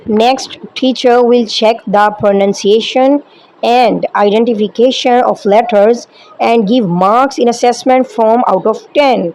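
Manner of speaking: slow, measured English read from a script. Acted. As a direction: read each phrase out slowly like a formal guideline. Reads training script slowly in English.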